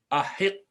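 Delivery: احق said as a-HIQ-qu, with an i; slow demonstration of احق as a-hiq-qu; hypothetical kasra form. Shown as a demonstration. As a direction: put an i before the doubled q of احق. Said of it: "ورنہ ہوتا".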